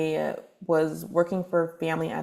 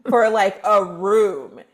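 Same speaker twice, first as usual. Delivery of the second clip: be appalled at what you pay; retold disbelief; 4 semitones higher, 3 dB louder than usual. Astonished at her own rent.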